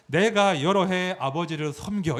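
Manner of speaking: slow, courteous opening; polite first words. Shown as a demonstration. Son addressing his father politely in the Korean Bible. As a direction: say it respectfully and slowly. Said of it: "공손해 보였는데요".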